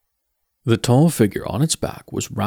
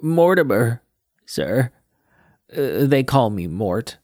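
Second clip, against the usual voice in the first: put-on young Mort. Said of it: "said Mort".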